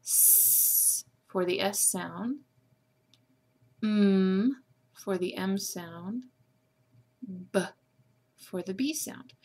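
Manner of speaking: slow, careful letter sounds S, M and B; slow teacher demo of the sounds S, M and B. Shown as a demonstration. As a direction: say each sound slowly for the class. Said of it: "would sound like".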